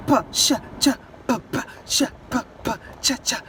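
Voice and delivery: PÁ, CHÁ, TCHÁ as short voiceless drum hits; beatbox "pá, chá, tchá" in the mouth, little voice; mouth drumming. Shown as a demonstration. Teacher playfully making music of the sounds, pá, chá, tchá as voiceless percussion. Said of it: "como se você estivesse tocando uma bateria".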